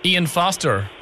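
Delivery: put-on American with a strong R; American accent. Prank caller repeats the name to the clerk, American accent. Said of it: "talk to them in your American accent".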